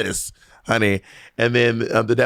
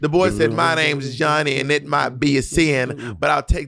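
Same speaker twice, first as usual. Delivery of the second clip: Southern country recitation; country-accented verse in steady rhythm. Acted. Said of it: "You are so country".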